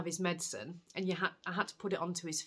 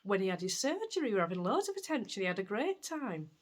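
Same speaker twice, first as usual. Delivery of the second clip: higher and quicker, cheerfully dismissive; breezy nurse; 3 semitones higher than usual. Retold or imitated. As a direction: brush off the worry with a laugh in the voice. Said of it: "She goes".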